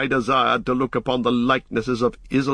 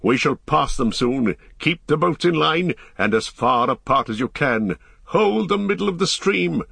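raised voice giving orders; calling out; 5 semitones higher than usual. A narrator's reading. Aragorn steering the boats through, calling out orders. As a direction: call instructions along the boats, pitch lifting on commands. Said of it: "cried Aragorn".

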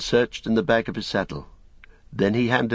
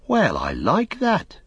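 Pippin; 12 semitones higher, slower than usual. A narrator's reading. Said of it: "said Pippin".

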